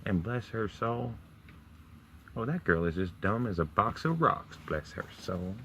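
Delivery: put-on Southern US accent. Southern gossip pitying a dumb girl, high Southern accent. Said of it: "south of the U S".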